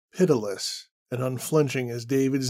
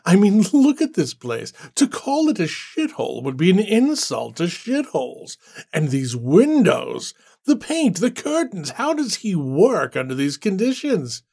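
laughing scorn; 4 semitones higher than usual. Acted. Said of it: "Randall laughed".

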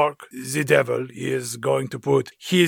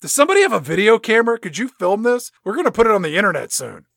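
excited; 7 semitones higher, faster than usual. Acted. Voicing monk, gleeful.

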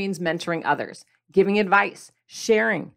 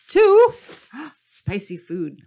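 gasping; 3 semitones higher, 5 dB louder, much slower than usual. Pretend. Gasp mimicking shock at spice.

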